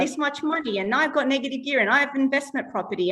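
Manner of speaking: put-on high sing-song, like reading to a child. Shown as a demonstration. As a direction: explain it brightly like a children's story. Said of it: "sing-song voice, like the way you would read to a child".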